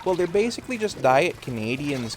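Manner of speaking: a light mock Minnesotan lilt; Minnesota accent. Streamer joking about Minnesotans, mock Minnesota accent. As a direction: keep the hammed-up Minnesota voice. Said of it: "Minnesotans sound like this".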